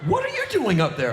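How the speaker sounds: high, startled self-questioning; baffled at himself. Retold or imitated. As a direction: catch yourself mid-pose and wonder. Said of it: "I'm like".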